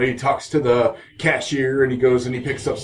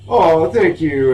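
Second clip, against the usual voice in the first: mock sweet thanks; 3 semitones higher, 5 dB louder than usual. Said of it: "they're like".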